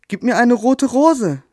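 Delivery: a small bird's hopeful call. Acted. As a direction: call out eagerly, high and drawn out. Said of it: "rief sie".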